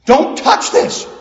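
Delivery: loud, breathy, slow "Don't touch this"; loud hushed warning. Retold or imitated. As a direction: hiss a horrified warning at him. Onlookers warn Peter off ham.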